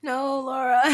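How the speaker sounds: loud, high laughing protest. Real, not acted. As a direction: cry out in playful protest.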